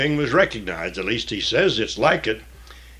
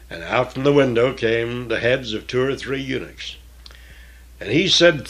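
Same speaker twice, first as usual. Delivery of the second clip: measured, solemn Bible reading; scripture reading. Acted. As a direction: read the King James text with weight.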